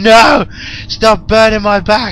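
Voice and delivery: loud, high retold movie yell; high mock-agonized shout; mock scream. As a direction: holler it like a hammed-up torture victim. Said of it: "and he's going".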